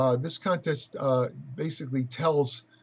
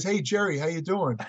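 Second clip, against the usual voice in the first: put-on Australian accent. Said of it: "With the Australian accent".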